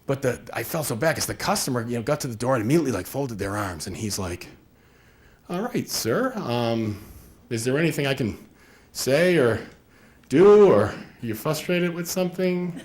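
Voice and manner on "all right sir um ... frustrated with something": mock tentative question with drawn-out pauses; awkward, hesitant salesman. Contractor to customer with folded arms, awkwardly hesitant. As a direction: feel your way haltingly through the question.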